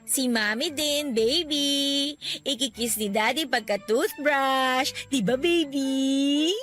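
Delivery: put-on slow, drawn-out cooing to a baby; playful parent's singsong; baby talk. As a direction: coax through the baby, stretching the endings. Mother talks through the baby.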